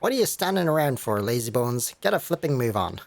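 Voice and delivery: lightly voiced mouthy fairy complaining; a hint of a Welsh lilt, put-upon; cheeky Welsh fairy, grumbling. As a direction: moan about doing the carrying. Drippy grumbles carrying the cat.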